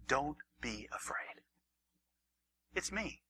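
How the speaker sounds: slow whispered comfort; soft whisper. Acted. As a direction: whisper it slowly to soothe. Jesus reassures disciples.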